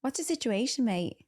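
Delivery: lightly mocked Aussie twang; mock Australian accent. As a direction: tease with a put-on Australian accent. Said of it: "he speaks in an Australian accent".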